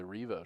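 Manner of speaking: long ee in the first syllable of Revo; long-e pronunciation. Shown as a demonstration. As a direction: say Revo as REE-voh. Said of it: "I must have been mispronouncing it".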